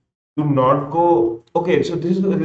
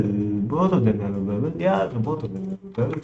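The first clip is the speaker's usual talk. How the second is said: odd put-on voice. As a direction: toy with the words in a playful voice. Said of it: "I don't know why I'm speaking like this".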